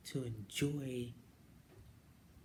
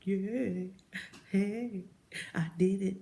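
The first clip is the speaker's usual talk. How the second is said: higher, louder little victory cry; excited cheer; 7 semitones higher, 7 dB louder, slower than usual. Retold or imitated. Recalling passing the written test, cheering louder. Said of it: "I was like".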